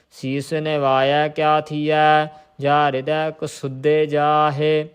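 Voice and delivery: measured Gurbani recitation on a level tone; intoned Sikh scripture reading. Shown as a demonstration. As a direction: recite the verse evenly, drawing out line endings.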